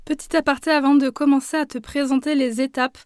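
a hoarse voice, a bit sick. Real, not acted. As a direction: speak with a scratchy, cracked voice from a cold. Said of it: "un petit peu la voix rauque".

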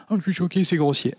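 high prim outrage; mock offended listener. Listener offended by swear words, mock prim outrage. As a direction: play the shocked prude. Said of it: "tu pars".

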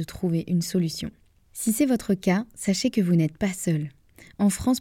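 measured, scripted ad-read delivery; sponsor read. Acted. Podcast host reads out a digestive-supplement sponsor message, ad read. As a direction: read the partner's message cleanly, in tidy phrases.

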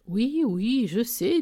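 lifted, smiling concession. A narrator's reading. Narrator humours her excited friend, smiling. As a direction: give in with a smile. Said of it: "dis-je en souriant".

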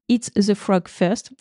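slow English phrase in a strong French accent; French accent on "Eat the frog first", said slowly. Real, not acted. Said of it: "désolé pour mon accent, euh, déplorable".

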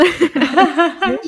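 a short high burst of laughter; bright laugh. Real, not acted. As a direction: laugh it off, amused. Guest laughs about her accent. (petit rire amusé)

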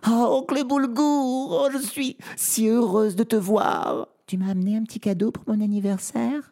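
put-on very high, gushing girlish voice; overjoyed little princess. A narrator's reading. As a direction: greet your uncle in a high, delighted squeal. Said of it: "pleure de joie". (petite princesse folle de joie, voix très aiguë)

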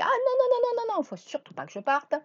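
high panicky whining voice; fearful inner voice. Retold or imitated. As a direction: squeal out the worried no's. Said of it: "puis qui dit".

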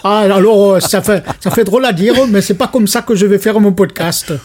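laughing into a mock Marseille accent; jokey put-on Midi accent. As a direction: play up a southern French, Marseille accent. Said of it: "l'accent, l'accent marseillais".

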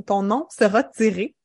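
normal talking voice

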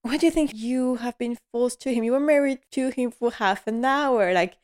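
a hint of the puzzled dowager; lightly voiced Violet. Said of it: "She's like".

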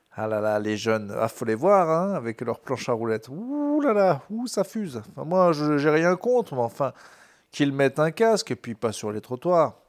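lightly voiced old grumbler, rising on ouh là là; a hint of a cranky old man; grumpy old man. Grumpy old person on youngsters.

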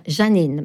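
Janine with an A in the first syllable; Arabic pronunciation. Shown as a demonstration. Correcting to the Arabic form, Janine with an A. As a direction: open the first vowel of Janine to A. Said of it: "En, en arabe, Janine".

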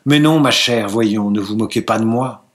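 a touch of irritation, slightly sharper; hint of ill humour. Husband chiding his wife, with mild ill humour. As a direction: mildly put out, chiding. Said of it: "avec une nuance de mauvaise humeur".

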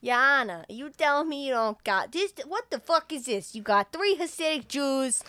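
loud, indignant rant about the jury; ranting lawyer. Retold or imitated. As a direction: build into an outraged shout.

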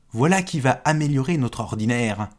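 loud boastful cry; shouting proudly. Acted. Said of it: "se mit-il même à crier".

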